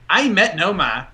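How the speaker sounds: slow imitation of a Boston local; Boston accent. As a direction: drop the r like a Bostonian, drawn out. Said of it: "there would be people going".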